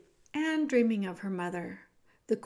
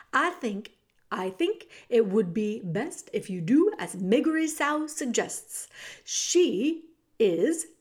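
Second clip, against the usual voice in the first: menacing rat; 3 dB louder than usual. Acted. Roscuro menacing.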